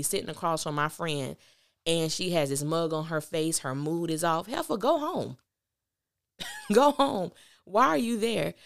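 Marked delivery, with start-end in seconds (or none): 4.5-8.5 exasperated high call. Real, not acted. Mocking a moody friend.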